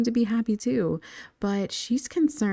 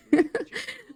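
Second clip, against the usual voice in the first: a real high burst of laughter; 14 semitones higher than usual. Real, not acted. Laughs at her own story.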